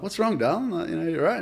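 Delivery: put-on high, soothing tone to a crying girl; high consoling voice to an upset tourist.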